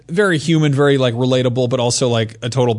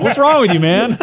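appalled bar patron; 9 semitones higher, 4 dB louder than usual. Retold or imitated. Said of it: "He'd be like".

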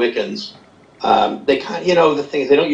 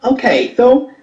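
Satan voice; 11 semitones higher than usual. Pretend. Host still voicing Satan.

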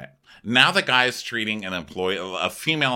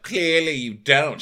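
slow, high, louder sneer; snide retort; 7 semitones higher, 5 dB louder, slower than usual. Retold or imitated. Host voicing Tom sneering at Ashley, slow and snide. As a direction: drag it out with contempt.

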